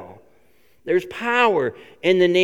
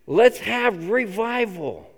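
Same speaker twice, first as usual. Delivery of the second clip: slow, softer loving appeal; tender appeal; 3 semitones higher, 3 dB quieter, slower than usual. Retold or imitated. Paul gently urging the church toward unity, slow. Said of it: "a hope in Paul that says".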